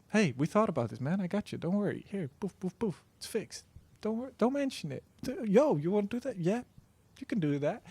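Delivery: a hint of a chill buddy reassuring you; synth voiced as helper. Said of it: "Then, then the Nina said".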